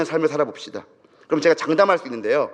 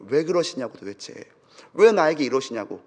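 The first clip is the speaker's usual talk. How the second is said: normal talking voice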